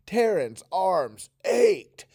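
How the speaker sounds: ached groaned out slowly and loudly; aching groan on ached. Shown as a demonstration. Teacher reading ached with an aching groan. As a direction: drag ached out like a sore groan. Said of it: "So say ached with that sound".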